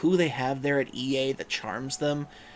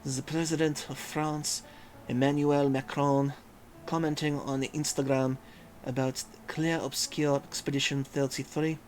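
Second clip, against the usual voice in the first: a hint of a French accent; French accent attempt. Shown as a demonstration. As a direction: read it like a Frenchman, not quite managing. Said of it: "How would I put a French accent on this?".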